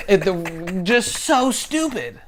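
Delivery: slow, high, laughing through the words; real laughing despair; laughing exasperation. Real, not acted. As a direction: laugh it out in disbelief. Laughing at school system.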